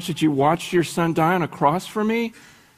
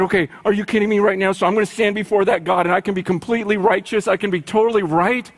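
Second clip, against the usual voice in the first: excited; faster than usual. Retold or imitated. Excited listener voiced fast.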